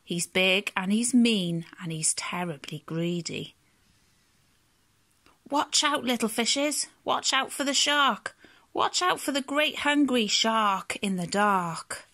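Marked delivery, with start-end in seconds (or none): 5.5-12.1 higher-pitched storybook warning; warning cry. Acted. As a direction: call out a warning to little fishes. Warning the fishes of the shark.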